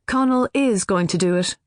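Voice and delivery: firm and final, stress on is. Acted. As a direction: settle it firmly, no argument. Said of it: "Katie says very firmly".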